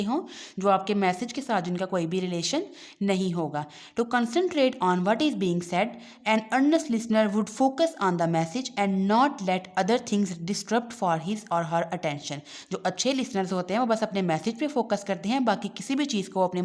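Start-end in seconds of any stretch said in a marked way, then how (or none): 4.0-12.5 reading the English line slowly and deliberately; slow textbook reading. Acted. Teacher reading the textbook aloud to students, slow and deliberate. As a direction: read it out word by word for the class.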